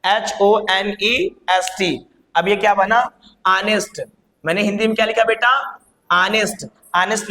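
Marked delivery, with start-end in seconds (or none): 0.0-1.9 letters spelled one by one, slowly. Shown as a demonstration. Teacher repeating the spelling for students. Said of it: "ये बोला था मुद्दा मैंने ऑनेस्ट का".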